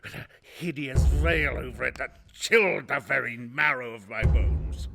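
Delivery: growing fury. Acted. Rising fury at the eye.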